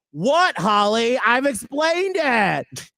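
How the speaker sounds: high, slow, drawn-out protest; high slowed mock complaint; mock defensive exasperation. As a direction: whine it like a defensive coworker. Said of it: "I'd be like".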